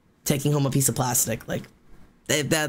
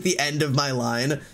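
ordinary delivery

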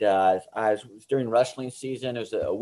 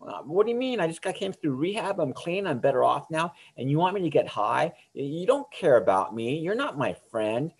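indignant refusal; 4 semitones higher than usual. Retold or imitated. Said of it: "He goes, he goes".

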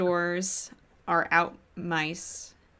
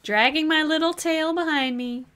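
tiny mouse voice; 10 semitones higher than usual. Pretend. Joking about becoming a dormouse.

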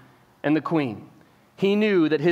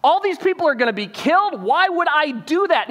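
shocked king; 6 semitones higher than usual. Retold or imitated. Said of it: "he's finally putting together".

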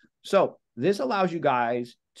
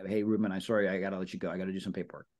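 low, softer mumbled excuse; weak excuse; 6 semitones lower, 6 dB quieter, faster than usual. Shown as a demonstration. Agent giving a vague paperwork excuse to friend, soft and low. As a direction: trail off like a forgettable excuse. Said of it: "if you say".

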